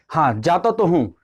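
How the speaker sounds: mildly irritated emphasis on तो; emphatic annoyed reply. Shown as a demonstration. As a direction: stress on तो in "जाता तो हूँ". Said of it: "जोर दे के या तो थोड़ा गुस्से से बोलते हो".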